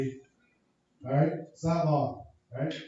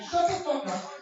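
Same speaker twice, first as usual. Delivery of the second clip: mock rage; 5 semitones higher than usual. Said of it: "'Cause I'm like".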